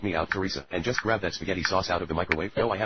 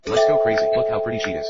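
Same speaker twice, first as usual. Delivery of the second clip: loud, higher-pitched rallying yell; excited shout; 4 semitones higher, 8 dB louder than usual. Acted. Firefighter rallying the crew going in, excited shout.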